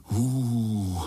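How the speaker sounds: long frightened hoo; the little spiders moan in fear; mild scared hoot; hooting in awe. Acted. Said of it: "zahučeli pavoučci sborem".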